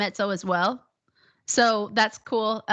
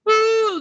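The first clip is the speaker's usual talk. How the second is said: short, loud pushed "whoo"; chest-voice whoo; 9 semitones higher, 5 dB louder than usual. Shown as a demonstration. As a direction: push a brief "whoo" from the chest. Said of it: "That's in the chest voice".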